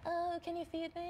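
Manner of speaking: high, laughing alien voice. Retold or imitated. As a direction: plead like a hungry alien from space. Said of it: "Is your alien voice?".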